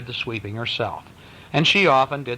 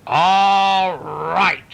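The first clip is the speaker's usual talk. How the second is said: loud, fed-up mother; exasperated mother's shout; angry outburst; 7 semitones higher, 6 dB louder than usual. A narrator's reading. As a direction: snap it out like a mom at her limit. Mama loses her temper.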